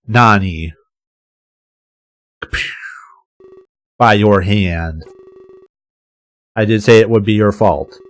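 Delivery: drawn-out, lightly menacing villain voice; demonic loudspeaker villain. A narrator's reading. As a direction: taunt slowly, with a touch of the demonic. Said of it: "voice sounds nearly demonic".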